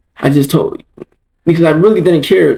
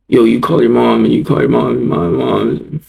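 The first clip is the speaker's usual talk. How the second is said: lower, mumbled mock taunt; mocking imitation; 3 semitones lower than usual. People teasing him for calling his mom, mocking. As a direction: imitate jeering onlookers, trailing into a mumble.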